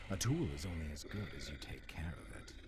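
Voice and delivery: a cold, sinister whisper. Acted. Villain mocks the captive she has silenced, sinister whisper. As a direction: whisper it like a patronizing threat.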